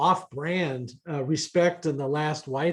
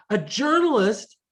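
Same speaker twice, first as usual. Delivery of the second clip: higher, louder scandalised question; incredulous; 7 semitones higher, 5 dB louder than usual. Retold or imitated. Board members balking at inviting a journalist, incredulous. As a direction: mimic a board's disbelieving outburst.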